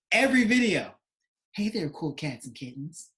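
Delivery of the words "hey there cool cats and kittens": lightly voiced Carol Baskin greeting; a hint of the tiger lady's sing-song hello; imitating Carol Baskin. Friend mimics Carol Baskin's video intro, lightly voiced. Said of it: "Just like that".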